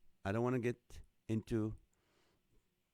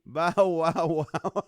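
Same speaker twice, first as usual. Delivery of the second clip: loud, higher mock barking; playful dog bark; 3 semitones higher, 8 dB louder, much slower than usual. Host voicing a parrot's dog joke, playful dog bark.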